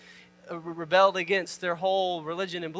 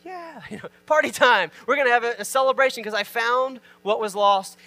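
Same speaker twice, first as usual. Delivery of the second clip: higher, playful rejoicing; acted celebration; 3 semitones higher, 4 dB louder than usual. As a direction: act out her delight at the find. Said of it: "She's like".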